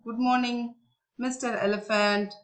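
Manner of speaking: mild, polite greeting, pitched a little up; a touch of courteous softness; soft, slow tone. Acted. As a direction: greet gently and politely, unhurried. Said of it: "in a very soft, slow tone".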